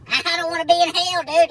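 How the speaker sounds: amused disbelief; laughing. Real, not acted. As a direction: crack up while repeating it. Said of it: "repeat, laughing".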